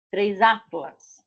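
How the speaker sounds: Três atlas, said slowly, with atlas unchanged; careful classroom example; slow teaching demo. Shown as a demonstration. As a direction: spell out the plural slowly for the learners. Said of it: "É igual".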